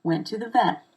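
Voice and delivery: "vet" stressed as the key word; linked words leading to a stressed "vet". Shown as a demonstration. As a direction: land the emphasis on "vet". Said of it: "I stress the word vet".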